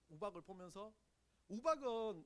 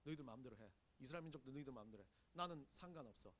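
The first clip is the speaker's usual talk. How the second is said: giving up; 8 semitones lower, 11 dB quieter, faster than usual. Retold or imitated. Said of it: "포기의 상태에 갑니다".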